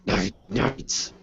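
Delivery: slow, soft strained throat voice; quiet gritty voice demo. Shown as a demonstration. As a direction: creep in and rasp it softly. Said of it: "I'm getting to bed really quietly and go".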